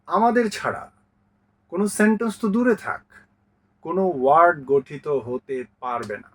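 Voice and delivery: vowels proclaiming. Acted. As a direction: announce it like a bold decree, half playful. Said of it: "পঞ্চপাণ্ডবই ঘোষণা করে দিয়েছে". (ঘোষণার মতো মজার ভঙ্গিতে)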